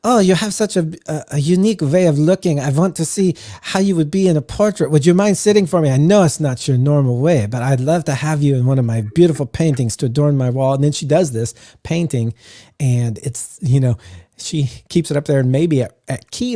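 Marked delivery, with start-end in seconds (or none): 0.0-10.7 lightly voiced hostess inviting a guest to sit for a portrait; a gracious painter charming the barbarian; flattering painter lady. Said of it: "She's like".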